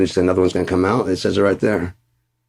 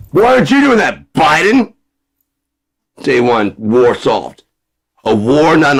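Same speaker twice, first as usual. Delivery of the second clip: Trump impression; 8 semitones higher, 8 dB louder than usual. Mocking Trump voice.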